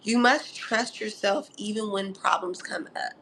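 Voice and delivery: soft unvoiced whisper; whispered advice. Real, not acted. Telling Mars in Virgo to trust themselves, whispering. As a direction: lean in and whisper it.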